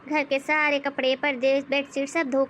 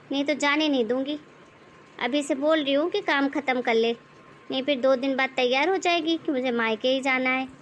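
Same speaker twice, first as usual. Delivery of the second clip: nagging mother-in-law. Acted. Mother-in-law scolds the bahu for sitting with a laptop. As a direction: nag the daughter-in-law like a bossy saas.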